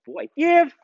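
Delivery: training commands; dog commands. Real, not acted. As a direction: call out commands crisply.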